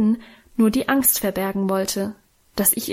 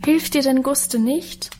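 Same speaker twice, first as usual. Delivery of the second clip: a touch higher and slow, sweetly asking; fluting sympathy; 4 semitones higher than usual. Acted. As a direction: coo the question. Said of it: "flötete Adele wieder". (Adele flötet mitfühlend, etwas höher und langsam)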